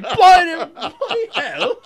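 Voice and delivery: high, slow mock Aussie; imitating an Australian; Australian accent. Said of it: "You're sounding a little Australian".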